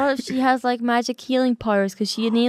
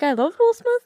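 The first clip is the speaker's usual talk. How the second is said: playful whine; 10 semitones higher than usual. Pretend. Playfully pleading she cannot fight him.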